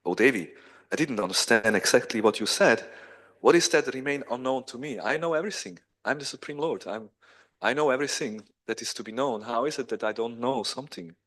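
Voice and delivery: mildly puzzled, insistent; bewildered protest. Acted. All-knowing Krishna to Rukmini, bewildered. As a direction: protest in lightly acted bewilderment. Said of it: "Krishna becomes bewildered".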